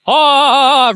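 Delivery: a sudden high, loud "Oh" of fright; mock-startled yelp at the snake. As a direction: jump at the sight of a snake.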